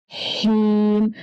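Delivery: हीम with the ई held long, slow; stretched vowel. Shown as a demonstration. Teacher stretches हीम for children. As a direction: pull the ई of हीम out for two beats. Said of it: "इसको भी खींचेंगे दो हरकत".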